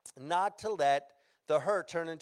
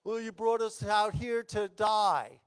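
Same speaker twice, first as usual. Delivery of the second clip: mild mock complaint; acted complaining; 3 semitones higher than usual. Thirsty Israelites to Moses, complaining. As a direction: lightly imitate an aggrieved complainer. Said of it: "they start complaining against Moses again".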